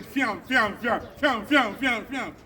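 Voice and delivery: rapid repeated "fiam" whoosh noises; imitated whizzing. Speaker mocking what flies around on internet, imitated whizzing. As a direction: mimic things zipping past.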